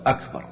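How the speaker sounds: أكبر said on its own after a long gap; delayed second word. Shown as a demonstration. Teacher showing an invalid takbir, أكبر coming late. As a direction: hold back, then add أكبر separately. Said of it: "بعد شوي يقول".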